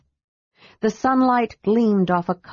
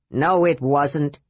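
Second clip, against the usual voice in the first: lower, gruff flat denial; gruff dwarf, dismissive; 4 semitones lower, slower than usual. Acted. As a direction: brush the kender off. Flint dismissive.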